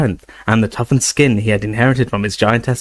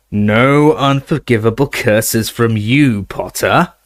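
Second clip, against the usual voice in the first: taunting shout; slower than usual. Acted. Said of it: "he shouted".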